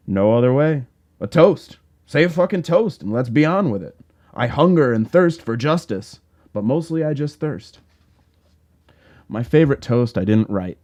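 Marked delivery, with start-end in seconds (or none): 0.1-7.8 higher, louder rowdy demand; excited shout. Acted. Hooper urging his friend to make a toast, excited shout. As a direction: push it up, hungry for the drink.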